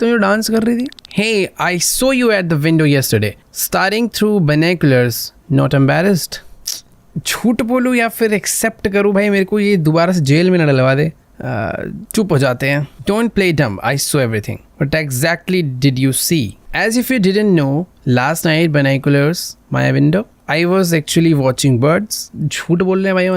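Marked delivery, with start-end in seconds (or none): 1.2-6.4 put-on slow, deliberate read of a girl's lines; lightly voiced angry neighbour; dialogue read aloud. Neighbour girl confronting the peeping player, slow acted read. 13.1-22.3 slow, drawn-out read of both sides; lightly acted accusation and excuse; acted argument. Girl accuses the player of spying, slow acted read. Reads a game argument aloud.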